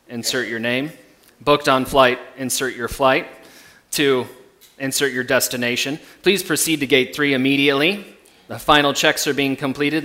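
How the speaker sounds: airport announcement. Pretend. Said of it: "heard these dreaded words before".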